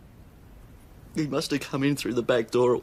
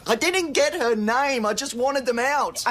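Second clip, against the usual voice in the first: raised, high-pitched frustration; exasperated outburst; 9 semitones higher than usual. Acted. Distressed father answering police about the doctor, exasperated outburst. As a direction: burst out defensively at the questioning.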